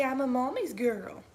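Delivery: soft little dog voice; voicing the dog. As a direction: speak for the puppy, softly.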